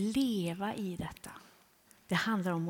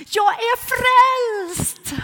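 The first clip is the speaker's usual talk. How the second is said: much higher, louder, slow triumphant cry; joyful shout; 15 dB louder, much slower than usual. Retold or imitated. Elsa on the pavement cries out to the preacher, in a joyful, much higher, louder shout. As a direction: arms raised, shouting her salvation to the sky. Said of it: "sträcker upp händerna och ropar".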